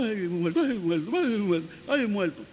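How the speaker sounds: grito asustado, más agudo; repítelo con pánico de comedia; susto exagerado. Acted. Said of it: "ahí va asustado". (miedo fingido)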